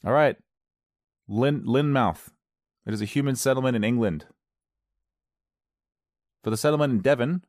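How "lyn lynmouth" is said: "Lynmouth" said slowly with a full "mouth"; full -mouth ending. Shown as a demonstration. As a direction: sound out "Lynmouth" as lin-mouth. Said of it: "see Lynmouth".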